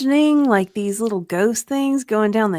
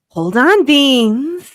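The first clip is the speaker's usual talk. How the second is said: loud, raised-pitch gruff command; biker's growl; 5 semitones higher, 13 dB louder, slower than usual. Acted. Yamaha urging Frank to hold on, growled loudly. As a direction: growl it urgently to the wounded friend. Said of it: "the biker growled".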